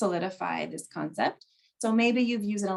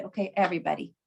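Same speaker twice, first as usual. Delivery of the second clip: "Okay, everybody" measured, then left hanging; dramatic pause; 2 semitones lower, much faster than usual. Retold or imitated. Teacher getting students' attention, "Okay, everybody" followed by a dramatic pause. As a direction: announce "Okay, everybody" and hold the silence. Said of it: "with that dramatic pause".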